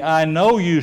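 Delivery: calm and even, falling gently; the door opening to you; mild accepting voice; welcoming Jesus. Shown as a demonstration. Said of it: "or are you on the".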